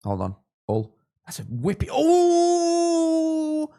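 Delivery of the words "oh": loud, high, drawn-out yell; long excited "oh". Real, not acted. Host watching a chance nearly go in, long high yell. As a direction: let out a long howl at a near miss.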